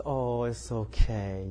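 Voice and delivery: slow, calm "it's okay"; patient mock reassurance. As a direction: brush it off gently and slowly. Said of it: "and say".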